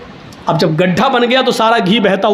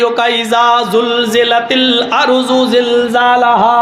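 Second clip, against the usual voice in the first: mock recitation; slower than usual. Mock Quran recitation while tipping plate.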